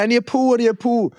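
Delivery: high-pitched retold whine of need; urgent drunken plea. Drunk lad telling his mates he needs the toilet, urgent high plea. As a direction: re-enact pleading, pitched well up.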